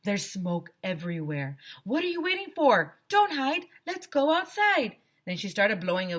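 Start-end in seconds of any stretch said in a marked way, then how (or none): 0.0-5.0 high, urgent calling out; urgent teacher. A narrator's reading. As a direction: hurry the kids outside. Teacher urging kids outside.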